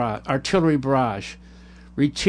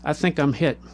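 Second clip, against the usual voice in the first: calm; 4 dB quieter than usual. Acted. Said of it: "Tom calmly said".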